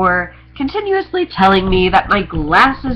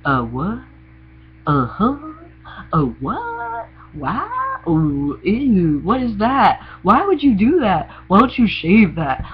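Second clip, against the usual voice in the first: judgy onlooker; 3 semitones higher than usual. Retold or imitated. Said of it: "I'd be like".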